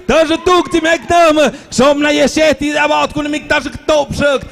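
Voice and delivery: fake foreign language. Mock German-Dutch babble, shouted.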